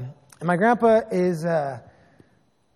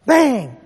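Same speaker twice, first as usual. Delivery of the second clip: loud, higher "Bang!" burst; mock gunshot; 4 semitones higher, 5 dB louder than usual. Preacher retelling the rifle going off in the struggle, loud bang. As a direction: punch out the gunshot word.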